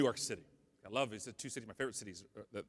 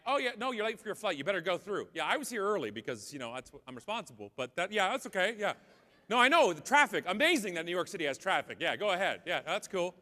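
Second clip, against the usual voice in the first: passive-aggressive politeness. Retold or imitated. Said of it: "stage one Canadian anger, which is passive-aggressive".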